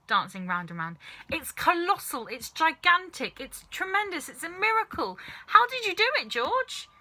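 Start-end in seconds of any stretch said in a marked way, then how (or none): 1.3-6.9 excited shout. A narrator's reading. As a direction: marvel out loud, thrilled. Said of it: "Mister Cranky shouted".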